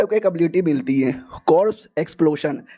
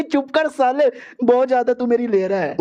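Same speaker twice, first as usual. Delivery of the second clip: pitched-up scolding, threatening; higher angry girl's voice; 5 semitones higher than usual. Acted. Girl threatening the crude hero, pitched-up and angry. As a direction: scold him in a raised girl's voice.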